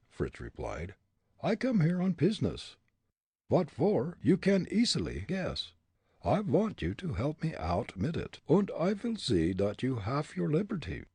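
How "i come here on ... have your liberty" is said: put-on comic German accent, raised pitch; thick stage German accent. A narrator's reading.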